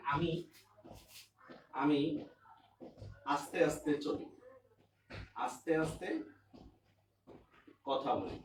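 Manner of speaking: slow, drawn-out words with long pauses; demonstrating speaking slowly. Shown as a demonstration. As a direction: show what slow speech sounds like. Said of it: "speaking slowly.".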